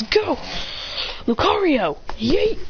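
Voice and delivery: high excited send-out call; battle command. Acted. Trainer sending Lucario into battle, high battle call. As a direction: throw the words out like a trainer. Trainer sends out his Pokémon.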